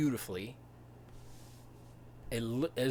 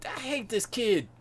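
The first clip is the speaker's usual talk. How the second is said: exasperated; 11 semitones higher, 5 dB louder than usual. Pretend. Speaker's mock exasperation.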